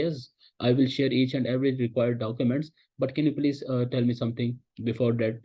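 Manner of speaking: slow, assured sales voice; confident. Shown as a demonstration. Teacher demos a confident deflection to a supplier. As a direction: sound sure of yourself, unhurried. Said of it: "confidence के साथ बोल सकते हैं".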